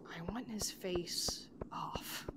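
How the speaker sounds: hushed, slow, mild-mannered impression; Owen Wilson. Player voicing a game character's threat, mild-mannered and hushed. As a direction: murmur it slowly, almost all breath. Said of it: "mild-mannered O-, Owen Wilson voice".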